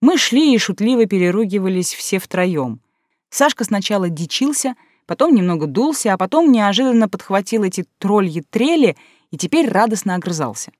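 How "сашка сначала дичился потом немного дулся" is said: usual speaking voice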